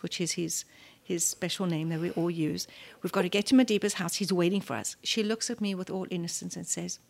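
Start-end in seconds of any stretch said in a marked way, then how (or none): 3.0-5.0 fast and louder, hurrying her along; urgent hurry. Retold or imitated. Mother hurrying her daughter to Madiba's house, fast and urgent. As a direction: rush the words out like you're late.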